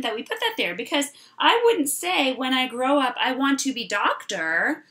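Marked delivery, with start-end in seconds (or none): 2.3-4.9 robot-like broken sentence. Shown as a demonstration. Teacher showing the wrong sentence: robot-like. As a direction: speak it like a robot, missing the little word. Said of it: "Sounds kinda like a robot".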